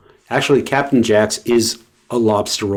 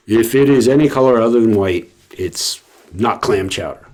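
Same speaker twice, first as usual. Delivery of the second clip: louder, quicker, mock-insistent local; lightly put-on know-it-all New Englander voice; mock local bragging; 3 semitones higher, 5 dB louder than usual. Telling newcomers how locals brag, lightly mock insistent. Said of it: "I know that's not a Boston accent".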